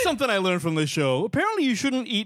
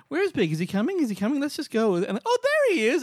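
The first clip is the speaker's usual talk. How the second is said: high-pitched eager questions rising to a squeal; mock eager chatter; 9 semitones higher than usual. Friends waiting for Big to turn up, mock eager chatter. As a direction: imitate friends excitedly looking out for someone. Friends asking after Big, then spotting him.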